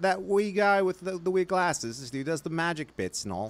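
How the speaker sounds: hammed-up Scottish accent; mock Scottish bloke. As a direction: play a baffled Scot asking about the wee wizard. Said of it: "It's like".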